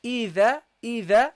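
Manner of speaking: إذا with a light, short alif after the dhal; reading idha. Shown as a demonstration. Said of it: "the the with the fatha".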